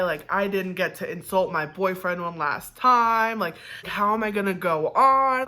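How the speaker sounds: mildly hammed-up inner panic; retold panic. Patient retelling her thoughts during surgery, mock panic. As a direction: lament it as a mock dying thought. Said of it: "I'm at full panic".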